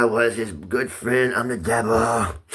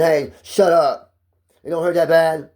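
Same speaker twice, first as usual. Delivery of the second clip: slow, loud, dismissive bark; mock the nurse shutting you down; rough orderly; 5 semitones higher, 4 dB louder, slower than usual. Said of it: "the guy ... said".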